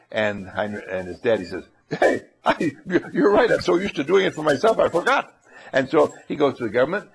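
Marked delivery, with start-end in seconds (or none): 1.9-5.3 dad voice. Acted. Dad conceding to son.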